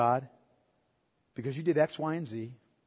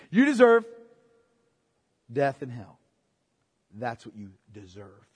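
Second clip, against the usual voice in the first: loving; 3 semitones lower, 6 dB louder than usual. Retold or imitated. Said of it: "very lovingly and say".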